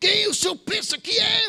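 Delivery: put-on enraged, furious, shrill, very high-pitched voice. Retelling a gas station mix-up, imitating the angry manager who confronted him. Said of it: "pensa num cara brabo".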